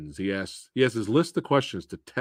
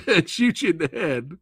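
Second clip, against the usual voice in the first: lightly voiced menacing killer, pitched up; mock killer threat; 7 semitones higher than usual. The hero turning killer on taxi drivers, mock menacing threat. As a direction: threaten with a grin, half laughing. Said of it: "from mild manner to".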